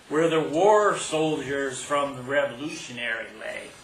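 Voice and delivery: measured poetry reading with stressed phrases and deliberate pauses; poem recital. Acted. Poet telling an audience about a childhood kiss, poem recital.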